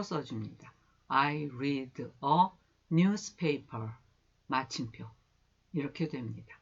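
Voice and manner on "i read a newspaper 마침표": I read a newspaper said very slowly, word by word; slow dictation. Shown as a demonstration. Teacher reads the full sentence aloud to students, slow dictation. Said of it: "앞에서부터 읽어보겠습니다".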